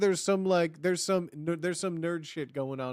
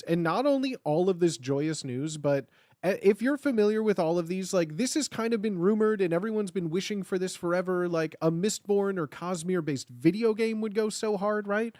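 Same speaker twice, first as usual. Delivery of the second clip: ordinary talk, nothing marked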